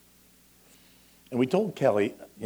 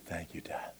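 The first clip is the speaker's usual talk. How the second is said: quiet thanks; 4 semitones lower, 8 dB quieter than usual. Acted. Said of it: "when we say".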